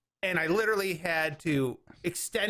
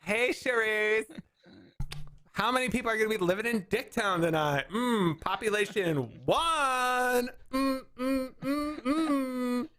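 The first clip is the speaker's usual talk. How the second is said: put-on sassy girlfriend voice; 4 semitones higher than usual. Acting girls' hype talk.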